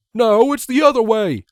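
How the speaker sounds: high shrill contradicting shout; arguing colt. Acted. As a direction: snap back at your friend. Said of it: "Snails retaliating".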